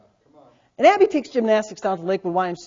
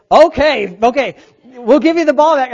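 lightly voiced boys caving in, louder; mock meek older kids; 4 semitones higher, 8 dB louder than usual. Boy imagining the teenagers backing down, mock meek. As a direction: play the big kids giving up the ball.

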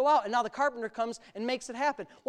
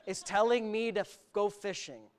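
skeptical Peter; 3 semitones lower, 4 dB quieter than usual. Retold or imitated. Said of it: "you know what Peter thought".

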